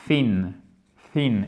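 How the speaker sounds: THIN avec TH soufflé, langue entre les dents; TH anglais correct. Shown as a demonstration. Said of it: "Exactement comme dans le mot". (thin avec un vrai TH anglais)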